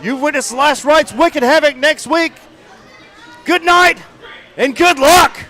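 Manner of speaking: winded, breathless sign-off; out of breath. Real, not acted. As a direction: gasp the words after running. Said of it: "I'm out of breath".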